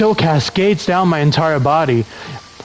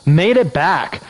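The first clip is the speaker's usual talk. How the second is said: put-on Valley Girl voice; 3 semitones higher than usual. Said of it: "Do a Valley Girl voice?".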